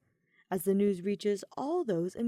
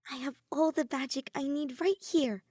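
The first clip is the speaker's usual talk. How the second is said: higher, rising, louder at the end; tender reply; 7 semitones higher, 4 dB louder than usual. A narrator's reading. Soleil answering Ophelia under fireworks, higher and heartfelt.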